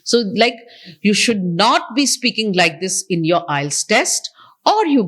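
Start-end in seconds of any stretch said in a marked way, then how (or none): 1.0-3.0 lilting rise and fall across the phrase. Shown as a demonstration. Trainer showing students the intonation needed, rise and fall. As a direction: let the tune go up and down. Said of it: "the rise and the fall of the language".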